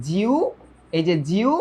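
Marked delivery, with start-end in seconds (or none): 0.1-0.3 জিউ as "ji-u", gliding into u; syllable-by-syllable pronunciation. Shown as a demonstration. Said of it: "এটার উচ্চারণ হচ্ছে". 1.3-1.5 জিউ as "ji-u", gliding into u; syllable-by-syllable pronunciation. Shown as a demonstration. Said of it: "এটার উচ্চারণ হচ্ছে".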